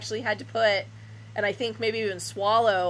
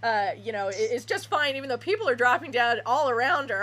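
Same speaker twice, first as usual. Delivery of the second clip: sarcastic. Retold or imitated. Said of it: "it's like".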